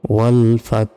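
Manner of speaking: ওয়াল ফাত with a breathy h after the t; hint of ha. Shown as a demonstration. Teacher demonstrating the final letter, ওয়াল ফাত with exhaled h. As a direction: let ওয়াল ফাত end in a puff of h. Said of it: "হা অক্ষরের একটা পূর্বাভাস".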